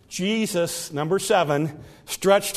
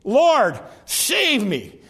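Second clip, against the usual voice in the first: short cry; 3 semitones higher, much slower than usual. Acted. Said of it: "he just said".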